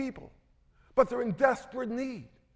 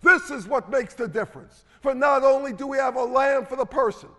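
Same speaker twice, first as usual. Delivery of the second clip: raised, driving sermon delivery; emphatic preaching; 2 semitones higher, 4 dB louder than usual. Real, not acted. Preacher urging congregation toward the lamb's power, emphatic and forceful. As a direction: preach it with rising conviction.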